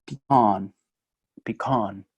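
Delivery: "pecan" as PEE-kawn with an open o; southern pecan. Shown as a demonstration. Teacher demos the Southern "pecan" for the class, PEE-kawn. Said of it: "dicen algo así como".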